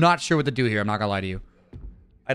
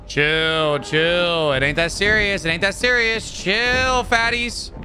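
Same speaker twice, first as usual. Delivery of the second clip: taunting; 4 semitones higher, slower than usual. Real, not acted. Taunting while dodging.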